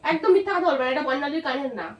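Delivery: high, loud accusing shout; angry shouting. Acted. Fake quarrel peaks.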